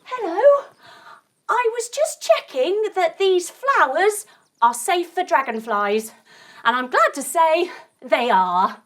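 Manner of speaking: quickly. Acted. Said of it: "very quickly".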